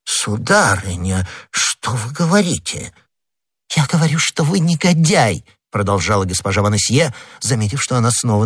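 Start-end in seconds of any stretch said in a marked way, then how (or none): 0.1-2.9 slow, mildly intimidated; a touch of timid dismay; cowed protest. Acted. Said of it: "струсивший перед семейной бурей". 3.7-5.4 high, forceful accusation; indignant wife standing firm; angry insult. Acted. Wife berates cowed husband.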